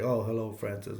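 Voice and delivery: mildly acted brush-off, dropping away at the end; unenthusiastic greeting. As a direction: greet him as if you'd rather not. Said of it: "he doesn't want nothing to do with Francis".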